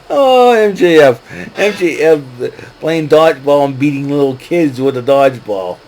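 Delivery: amused exclamation. Real, not acted. Fan recounting dodgeball antics with kids, amused exclamation.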